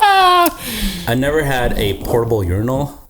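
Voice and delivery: talking through laughter; laughing. Real, not acted. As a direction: laugh while telling it. Laughing about the urinal.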